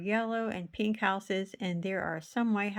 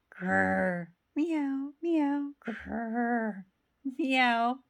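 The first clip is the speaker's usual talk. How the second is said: dog and cat noises; 3 semitones higher, much slower than usual. Acted.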